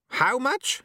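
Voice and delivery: high, rising urgent question; calling out. Acted. Sweeper asking apprentice the amount, calling out. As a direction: demand it across the hall. Shouting back in crisis.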